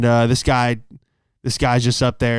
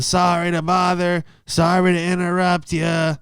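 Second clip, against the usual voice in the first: higher, slow, apologetic pleading voice; subway panhandler; 5 semitones higher than usual. Retold or imitated. Panhandler addressing subway riders, higher slow plea. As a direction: plead slowly for spare change, pitched up. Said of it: "the other guy gets on".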